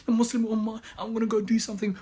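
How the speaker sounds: put-on wail of distress, slightly hammed up; mock sad. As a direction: mockingly imitate an upset, helpless complainer. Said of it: "be even sad".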